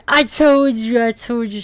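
high teasing I told you; shrill mock reprimand; mock scolding. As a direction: tease like a smug friend. Quoting the rejection.

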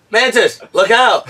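high, loud retold yell; shouted warning. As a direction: call out a mock urgent warning.

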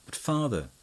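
high, eager objection; heated protest. Acted. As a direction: push back at him hotly. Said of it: "said Frank very warmly".

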